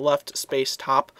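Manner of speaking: slow, spelled-out dictation; dictating. Shown as a demonstration. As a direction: read the code out slowly, piece by piece. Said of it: "there's a space between left and top".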